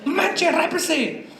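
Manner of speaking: high, loud, slow scandalized shout; mock outrage. Peter scolding the churches, mock outraged shout. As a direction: blast them, scandalized. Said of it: "Llega Pedro y les dice".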